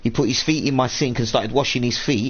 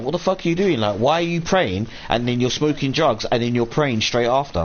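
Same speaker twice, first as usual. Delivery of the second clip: retold cussing out; 2 semitones higher than usual. Friend cussing the roommate out.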